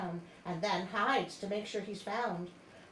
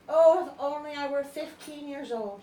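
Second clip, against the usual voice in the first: little mermaid voice; 5 semitones higher, 9 dB louder than usual. Acted. Mermaid's wish quoted in story.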